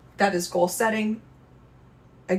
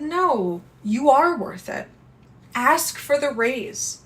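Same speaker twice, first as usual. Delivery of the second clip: higher, cheering inner voice; encouraging inner voice; 5 semitones higher than usual. Acted. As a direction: lift your pitch and cheer yourself on. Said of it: "What if the voice said".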